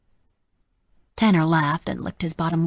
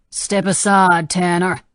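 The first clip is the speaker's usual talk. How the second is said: firm command; 7 dB louder, slower than usual. Acted. Father commanding gunman.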